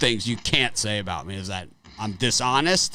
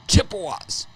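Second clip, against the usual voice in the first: higher-pitched mock bark; barked team name; 8 semitones higher than usual. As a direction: call out a team name abruptly, mimicking. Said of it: "just start barking out team names".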